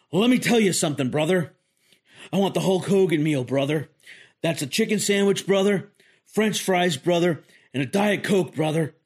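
a lightly done, badly faked wrestler bravado; Hulk Hogan. Customer orders his meal at the drive-thru, mock Hulk Hogan voice. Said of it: "not a very good Hulk Hogan impression".

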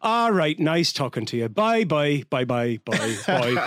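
imitated Irish phone goodbye, repeated and trailing away; Cork sign-off trailing off. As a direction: wind down a call with a string of Irish byes. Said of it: "And it just trails off".

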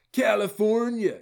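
slow, high, loud politician announcement; mock Newsom address, high and drawn out; Gavin Newsom voice. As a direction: proclaim the state's name like a governor. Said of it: "in my best Gavin Newsom voice".

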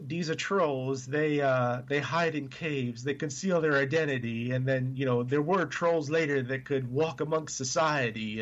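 hint of a Danish accent. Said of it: "impersonation of the Danish accent".

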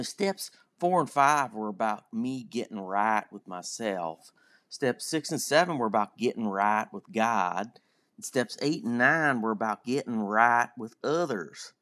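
imitating a Southern speaker at the meeting, lightly; southern accent. Quoting the Southern guy at the meeting, in a mild Southern accent. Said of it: "I'm gonna try to do a southern accent".

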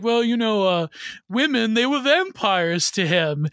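imitating an art critic's heavy Australian accent. Quoting an art critic on Munch to a podcast partner, imitated Australian accent. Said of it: "heavy Australian accent".

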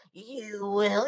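put-on vigilante voice, imitated; lightly hammed-up superhero threat; Batman. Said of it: "It's like three different voices".

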